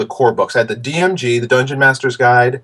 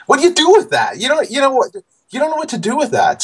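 exasperated. Real, not acted. Exasperated over the form letter.

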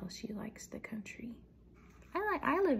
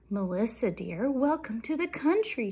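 louder, welcoming storybook mouse; gushing welcome; 2 semitones higher, 8 dB louder than usual. A narrator's reading. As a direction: greet a dear guest with lilting emphasis. Story mouse welcomes her friend.

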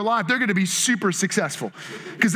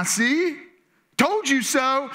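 mock I-told-you-so; 3 semitones higher, much slower than usual. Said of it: "your wife is reminding you".

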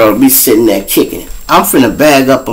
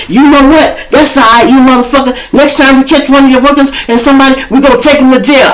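angry cop; 12 semitones higher than usual. Retold or imitated. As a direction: spit the threat like a mad cop.

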